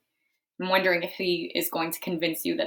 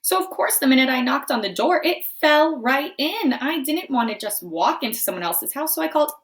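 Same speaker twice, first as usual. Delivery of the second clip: wolf narrator; 4 semitones higher, 4 dB louder than usual. Acted. Wolf narrates his story.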